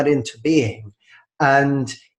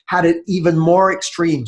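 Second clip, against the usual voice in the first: higher-pitched sudden realisation; eureka thought; 5 semitones higher than usual. Retold or imitated. Author retelling his Tim Ferriss epiphany, mock-excited and higher. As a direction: voice the lightbulb moment, lifted. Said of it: "I thought".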